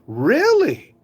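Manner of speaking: a kid pretending to be a grown-up on the phone; mock adult voice. Dennis the Menace answering a phone call in a put-on grown-up voice. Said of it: "He's trying to put on the, uh, adult voice".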